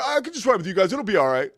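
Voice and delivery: high, pleading self-imitation; kinda panicked. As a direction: re-enact a nervous attempt to reassure. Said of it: "kinda panicked".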